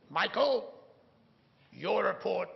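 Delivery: put-on high, loud first stab at a Scottish accent; Scottish accent attempt, abandoned halfway; failed Scottish accent. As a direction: try a Scottish accent and miss it. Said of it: "I can't get his Scottish accent".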